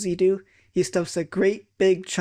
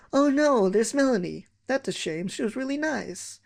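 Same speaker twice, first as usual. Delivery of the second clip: mock lament; 6 semitones higher than usual. Mock mourning fallen classmate.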